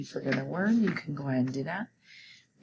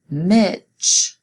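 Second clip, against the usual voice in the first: Mitch called much louder; stressed name; 3 semitones higher, 9 dB louder than usual. Shown as a demonstration. Teacher flagging a capital-letter name, loud. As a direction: hit Mitch loud and clear. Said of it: "that's a person's name".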